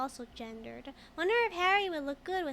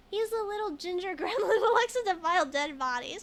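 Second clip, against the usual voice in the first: louder, laughing through the line; 4 semitones higher, 5 dB louder than usual. Real, not acted. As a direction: giggle your way through the answer. Picking the joke answer, laughing.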